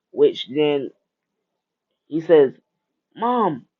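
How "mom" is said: P=A; crying out. Acted. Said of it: "while he's crying to see her alive".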